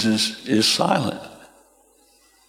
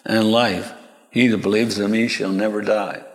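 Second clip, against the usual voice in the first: unruffled, gentle promise; calm. Acted. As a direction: finish gently and evenly.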